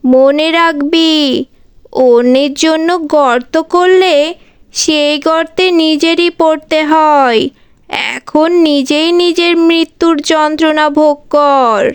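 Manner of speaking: mildly stern rebuke; righteous scolding rescuer. Acted. Rescuer scolds the tantrik burning in fire, stern.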